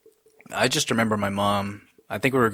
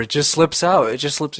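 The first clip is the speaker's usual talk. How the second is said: mom's embarrassed excuse, higher and louder; laughing it off, pitched up high; embarrassed mom repeating her excuse, higher; 6 semitones higher, 5 dB louder than usual. Retold or imitated. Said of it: "She just kept saying that".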